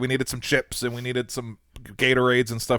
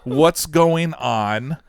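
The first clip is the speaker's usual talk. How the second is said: laughing mock scream; 4 dB louder, slower than usual. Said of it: "I remember screaming".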